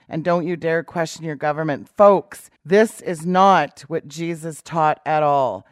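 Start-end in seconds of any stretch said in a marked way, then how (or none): 1.9-5.7 loud, slow emphatic declaration; preacher's forceful warning; emphatic preaching. Real, not acted. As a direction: slam the point home to the folks.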